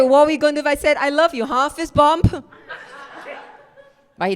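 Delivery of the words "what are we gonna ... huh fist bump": high, loud mock outrage; incredulous. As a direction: throw the question back in disbelief. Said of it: "I was like".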